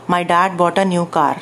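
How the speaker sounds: plain Indian English car with a rolled r; Indian English accent. Shown as a demonstration. Teacher demonstrates a student's Indian English accent. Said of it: "वो ऐसे बोलता है".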